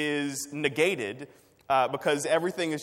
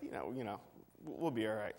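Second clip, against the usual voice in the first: mild self-reassurance; 3 semitones lower, 9 dB quieter, faster than usual. Retold or imitated. Reassuring himself, retold.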